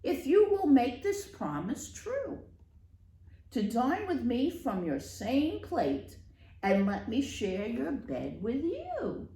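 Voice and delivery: loud, croaky frog voice; a frog croaking out his bargain. Acted. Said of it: "a loud voice croaked".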